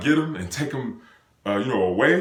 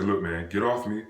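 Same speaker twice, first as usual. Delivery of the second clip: lower, softer retold reasoning; low-key appeal to back off; calm, collected; 6 semitones lower, 5 dB quieter than usual. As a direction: keep it quiet and level-headed. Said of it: "in a calm way".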